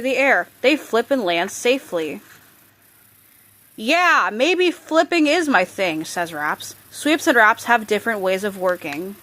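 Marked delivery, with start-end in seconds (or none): 3.7-6.0 character line. Acted. Character voice in read story.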